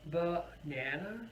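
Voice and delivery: "banana" slowly as ba-NA-na, rising; stress on middle syllable. Shown as a demonstration. Teacher asks which stress is correct, middle stressed. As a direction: stretch the middle of "banana" and lift the end. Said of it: "where are we going to put the stress".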